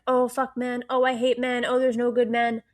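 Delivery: hammed-up impression of a fake man-hating friend; mocking man-hater persona. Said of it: "they put on this persona like".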